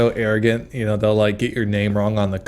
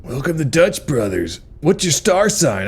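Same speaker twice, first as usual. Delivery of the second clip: chirpy barista voice; 5 semitones higher than usual. Retold or imitated. Barista voiced in comedic bit.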